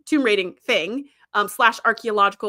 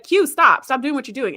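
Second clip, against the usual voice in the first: mock stern order; 4 dB louder than usual. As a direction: tell him to knock it off.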